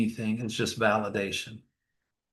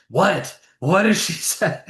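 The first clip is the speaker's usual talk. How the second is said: mock eager audience, higher pitched; a touch of pitched-up, urgent curiosity; eager questioning; 5 semitones higher, 4 dB louder than usual. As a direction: imitate listeners keen for the answer. Imitating eager seminar audience awaiting answer.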